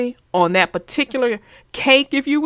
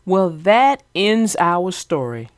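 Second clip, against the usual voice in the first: story narration. Acted. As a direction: ease out of the story gently. Closes the story reading.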